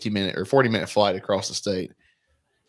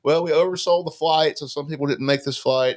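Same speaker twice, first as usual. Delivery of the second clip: pilot announcement; 6 semitones higher, 5 dB louder than usual. Retold or imitated. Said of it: "the pilot's like".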